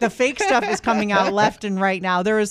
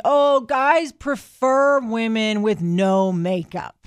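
mock know-it-all friend; much slower than usual. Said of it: "he's trying to tell me".

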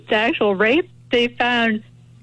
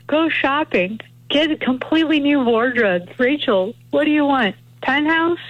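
lightly voiced quote, higher pitch; mock offer of a shopping spree, pitched up; imitating Carroll; 5 semitones higher than usual. Guest retells Carroll's Maddow remarks, lightly imitating her. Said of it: "you know what she said".

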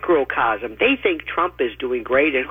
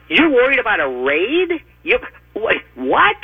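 incredulous outburst; 4 semitones higher than usual. Real, not acted. Mock disbelief at raid worries.

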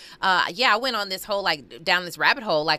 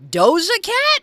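surprised; 8 dB louder, slower than usual. Real, not acted. Disbelief at praise for a rapper.

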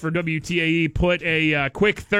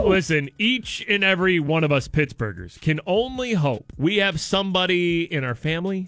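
mock-solemn tribute. Host honors fishing partner's support, mock-solemn tribute.

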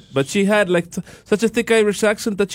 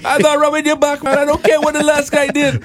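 higher, mock stern Jamaican assistant; Beckford voice; 9 semitones higher than usual. New assistant Beckford refusing old duties, higher mock Jamaican. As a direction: play the new assistant setting terms. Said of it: "his new assistant, Beckford".

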